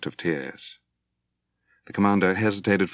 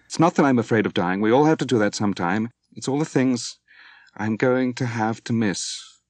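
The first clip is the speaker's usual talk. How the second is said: louder, higher angry outburst; angrily; 5 semitones higher, 4 dB louder than usual. A narrator's reading. Moira to Dwight about dying young, angry and louder. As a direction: throw the words at him in anger. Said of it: "she said angrily".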